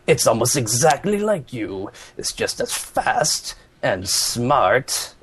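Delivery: gloating villain, slow in places; Eggman voice. Pretend. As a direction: savor each boast like a mad scientist. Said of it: "let's hear your Eggman".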